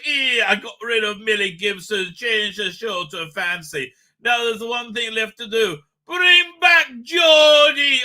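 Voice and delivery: hammed-up northern English accent, building to a drawn-out shout; mock northern accent. Host reads a viewer's chat message, exaggerated northern accent. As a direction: read it as a southerner's loud northern accent. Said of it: "it's a southerner doing a northern accent".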